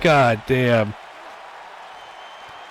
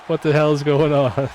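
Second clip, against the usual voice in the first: shocked, higher pitch; surprised; 4 semitones higher than usual. Real, not acted. Shocked at kickout in match.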